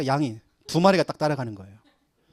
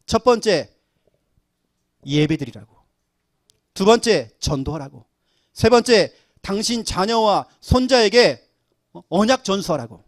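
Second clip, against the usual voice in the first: louder, punching each numbered point; emphatic counting; 3 semitones higher, 5 dB louder than usual. Retold or imitated. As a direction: drive home each reason to the congregant. Pastor counting reasons emphatically. (힘주어 하나씩 강조하며)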